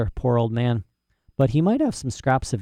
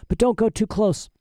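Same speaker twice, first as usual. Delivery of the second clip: put-on higher-pitched, nervous girl; shakily; 10 semitones higher than usual. A narrator's reading. Frightened Lyra instructs her companion Pan, shakily. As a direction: speak up high with a touch of fright. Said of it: "she said shakily".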